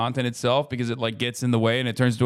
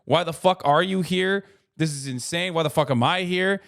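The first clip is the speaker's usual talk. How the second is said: amazed fan; 4 semitones higher than usual. Retold or imitated. Surprised fan running into the streamer by chance, excited disbelief. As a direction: play a thrilled fan who can't believe it. When someone just goes.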